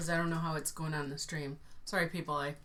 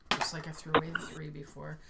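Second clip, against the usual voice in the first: whispering. Real, not acted. Unvoiced aside.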